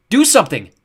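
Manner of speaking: high, loud plea; frantic shout; panicked call. A narrator's reading. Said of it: "Jared called, panicked".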